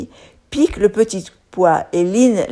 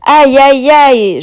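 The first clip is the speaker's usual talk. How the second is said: higher, louder storybook wail; moaning; 6 semitones higher, 6 dB louder, much slower than usual. A narrator's reading. The spoon realises she is captured, a hammed-up wail. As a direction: moan it like a caught little spoon. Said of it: "gémit la cuillère".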